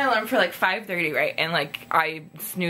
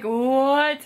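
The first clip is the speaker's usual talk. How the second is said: sudden high, louder "What?"; shocked "what"; 7 semitones higher, 4 dB louder than usual. Retold or imitated. Spotting Sam behind the stage, a shocked high "What?". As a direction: blurt it out in disbelief. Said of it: "we were just like".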